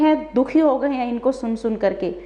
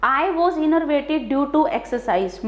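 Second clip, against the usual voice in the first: each word of the sentence read out very slowly and clearly; slow example reading; much slower than usual. Shown as a demonstration. Teacher reading an example sentence aloud to students, very slowly. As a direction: dictate the example so students can follow. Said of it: "एक बार example देखिए".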